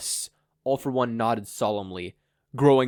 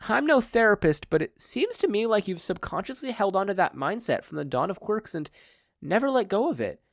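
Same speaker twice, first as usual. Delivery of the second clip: higher, gentle motherly voice; higher woman's voice; 6 semitones higher than usual. Acted. Inko offering therapy to the villain, higher and gentle. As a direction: play the mild mother analysing him.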